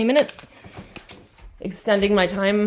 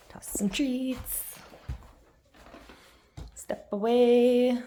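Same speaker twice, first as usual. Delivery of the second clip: whispering; 6 semitones higher, much slower than usual. Real, not acted. Whispered training cue to dog.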